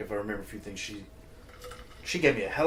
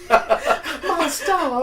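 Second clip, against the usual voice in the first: very high, loud Southern lady; 8 dB louder than usual. Acted. Guest echoing the host's Southern lady, loud mock Southern accent. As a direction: squeal it as a hammed-up Southern belle. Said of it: "a Southern lady can be like".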